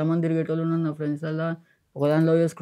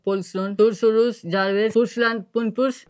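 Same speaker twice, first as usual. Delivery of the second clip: mock English; 3 semitones higher than usual. Shown as a demonstration. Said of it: "English లో అయిపోవా ఇప్పుడు".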